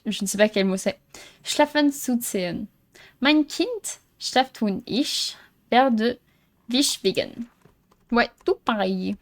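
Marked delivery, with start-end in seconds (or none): 1.4-7.5 slow, halting reading with gaps between words; hesitant, deliberate learner's German; reading German aloud. Real, not acted. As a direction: pick through foreign text word by word. Reads a German note aloud.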